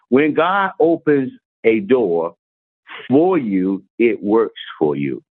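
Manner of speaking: slow, deliberate, weighing each word; slow emphatic reading. Shown as a demonstration. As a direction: read it out slowly so it sinks in. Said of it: "It said".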